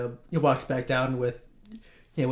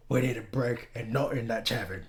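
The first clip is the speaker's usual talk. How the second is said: lowered voice, not a full whisper; mock whisper; 6 dB quieter than usual. Gadget confiding in Franklin as they leave, half-hearted whisper. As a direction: confide it a little softly. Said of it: "Gadget turns to Franklin and whispers".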